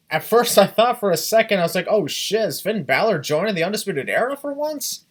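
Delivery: high, loud shocked fan; excited. Retold or imitated. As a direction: blurt it out in disbelief. Fan retells shock, laughing.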